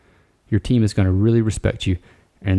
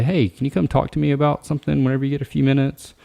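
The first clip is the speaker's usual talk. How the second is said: sugarcoated request; 5 semitones higher than usual. Retold or imitated. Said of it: "Don't sugarcoat it and say".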